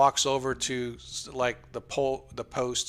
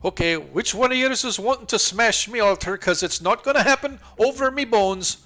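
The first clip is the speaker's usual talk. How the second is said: gruff NPC; 8 semitones higher, 4 dB louder than usual. Acted. NPC challenging the party.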